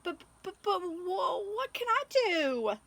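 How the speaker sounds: high, broken, stammering sobs; crying crocodile. Acted. Crocodile weeping as she asks Katy for help, high broken sobs. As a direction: stammer it out through tears, way up high. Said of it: "The crocodile began to cry".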